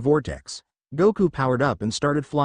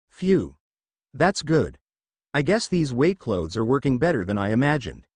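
lightly out of breath; a little winded after training; panting lightly. Acted. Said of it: "said Goku panting lightly".

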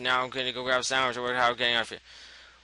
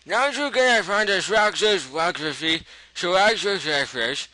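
talking with a mouth full of sandwich; chewing while reading aloud; 5 semitones higher, 3 dB louder than usual. Real, not acted. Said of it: the speaker seems to enjoy talking with his mouth full.

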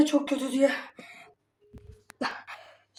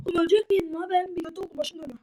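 man flu; 3 semitones higher, faster than usual. Real, not acted. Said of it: "Ağzım yanıyor".

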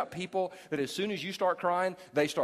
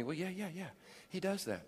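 put-on soft, dismissive girlfriend voice; naive girlfriend; 6 dB quieter than usual. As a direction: brush it off gently. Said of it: "I've had girls tell me".

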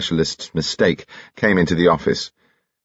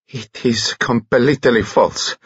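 slow, higher-pitched character voice with a foreign touch; indignant foreigner; 5 semitones higher, slower than usual. Acted. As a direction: deny it slowly, each word drawn out. Foreign blackmailer Dimitri denies charge.

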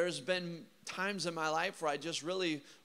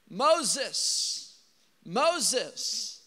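a raised, higher call across a distance, each name falling away; 4 semitones higher, 5 dB louder than usual. Retold or imitated. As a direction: call his name as if from inside the fire. God calls from the bush.

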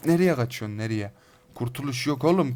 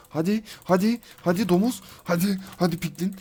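high, rising taunts; pitched-up battle challenge; goading; 5 semitones higher than usual. Real, not acted. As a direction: egg the enemy on to come at you. Goading enemies to attack him.

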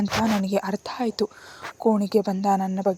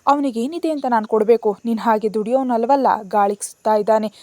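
louder, scornful heat; 5 dB louder than usual. Acted. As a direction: dismiss the nephew with passion. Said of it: "ಅಷ್ಟೇ ಆವೇಶದಿಂದ ಅಂದ್ಲು". (ಆವೇಶದ ತಿರಸ್ಕಾರ)

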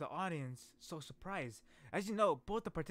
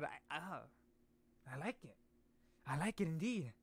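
ordinary talk

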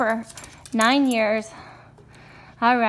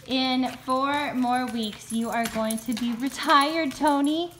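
slow, lower tender words; 6 semitones lower than usual. Real, not acted. Owner gently telling old guide dog he retires. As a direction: tell him gently.

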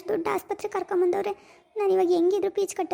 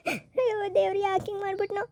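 tearful lament to God, voice dropping; wailing. Acted. Mother weeping by her husband's bed, crying. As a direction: cry out to God through sobs.

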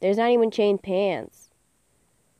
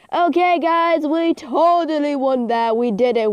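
excited; 7 semitones higher, 4 dB louder than usual. Real, not acted. Celebrating the win to viewers.

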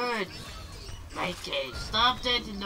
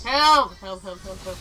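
urgent shouted pleas; real cries for help; 2 semitones lower, 6 dB louder than usual. Real, not acted. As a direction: call for help at full volume. Calling for help in game.

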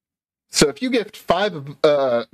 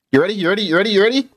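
teasing singsong; 4 semitones higher, much faster than usual. Pretend. Teasing chant before bomb.

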